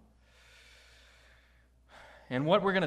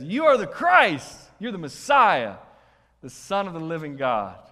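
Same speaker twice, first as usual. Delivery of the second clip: Peter proclaiming loudly, high and ringing; bold loud confession; 4 semitones higher, 12 dB louder than usual. Retold or imitated. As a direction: shout the confession out with conviction.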